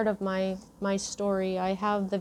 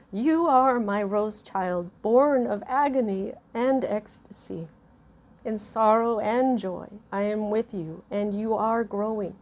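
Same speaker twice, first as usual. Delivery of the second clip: moved oracle card reading; 3 dB louder than usual. Real, not acted. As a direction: read the message gently, holding back tears. Reads the card's message.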